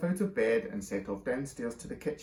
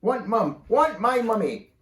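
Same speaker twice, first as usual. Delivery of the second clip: put-on loud, high, slow toddler wail; wailing baby; 9 semitones higher, 9 dB louder, slower than usual. A narrator's reading. Baby carried off, wailing for mummy. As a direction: howl for mummy.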